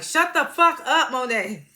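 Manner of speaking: slow, emphatic mock shout; retold angry outburst. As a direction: act out someone slamming the counter and silencing her. Drew slams counter, cuts Monet off.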